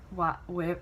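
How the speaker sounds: usual speaking voice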